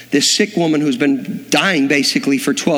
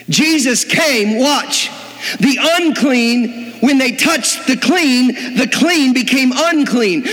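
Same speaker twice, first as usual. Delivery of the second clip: slow emphasis; 9 semitones higher, slower than usual. Real, not acted. Preacher slows for emphasis.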